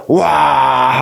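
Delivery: drawn-out wow of wonder; put-on awestruck wow; mock amazement. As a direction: act out being impressed by a big sight. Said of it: "하고 놀래요".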